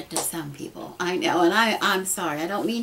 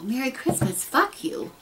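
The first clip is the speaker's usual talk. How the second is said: sarcastic Merry Christmas with a high snap on the curse; imitating rude holiday posts; mock hostile greeting; 6 semitones higher than usual. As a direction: spit the curse out mockingly. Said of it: "is kind of what people were saying".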